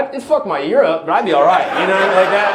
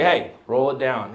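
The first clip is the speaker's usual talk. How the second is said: low, slow order at the window; calm foreman, pitched down; 4 semitones lower, 3 dB quieter, slower than usual. Acted. Foreman at the driver's window, low and unhurried. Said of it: "the foreman comes over".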